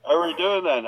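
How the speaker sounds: mock Somerset accent on a Bond line; West Country Bond. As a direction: play a Cornish Bond as a joke. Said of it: "or a, a Somerset Bond".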